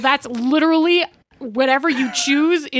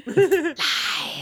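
laughing; 4 semitones higher, 3 dB quieter than usual. Real, not acted. Laughing repeat of own line.

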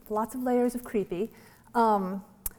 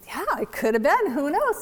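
mock enthusiasm; 6 semitones higher, 3 dB louder than usual. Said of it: "And I".

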